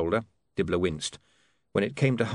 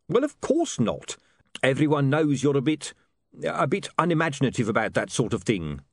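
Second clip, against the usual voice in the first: lightly voiced huckster, higher pitch; higher-pitched salesman making excuses; Dibbler, excusing; 6 semitones higher than usual. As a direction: explain it away, hesitating midway.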